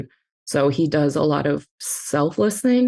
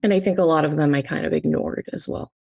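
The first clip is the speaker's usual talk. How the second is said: tearful, holding back sobs; crying. Real, not acted. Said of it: "I'm sorry I'm crying".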